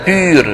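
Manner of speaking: بير as French 'pur', with rounded ü. Shown as a demonstration. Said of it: "بالفرنسية طبعًا في حرف أو". (بير بصوت u الفرنسي)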